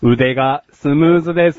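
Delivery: robot voice. Pretend. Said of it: "そんなこといちいち言うロボット".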